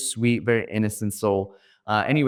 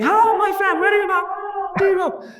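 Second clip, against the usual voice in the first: much higher, louder sing-song Indian English hawker; Indian auto driver; 4 dB louder, faster than usual. Retold or imitated. Indian auto driver to tourist, sing-song accent. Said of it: "he's like".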